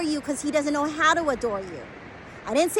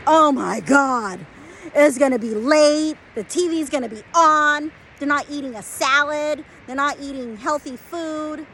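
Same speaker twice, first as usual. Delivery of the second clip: imitating a mom lighting up in shock; mock alarmed excitement; 2 semitones higher than usual. Imitating M realizing her home is just like that, mock excited. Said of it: "M's eyes just light up like".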